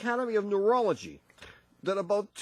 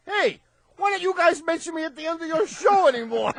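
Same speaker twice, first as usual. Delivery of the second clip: quoting the note; 9 semitones higher, 6 dB louder than usual. Retold or imitated. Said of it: "a note saying".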